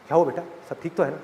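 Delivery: quick, soft, concerned dad; worried father. Acted. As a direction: hurry to ask if all is well, softly. (बेटी से जल्दी-जल्दी, धीमे स्वर में चिंतित पिता)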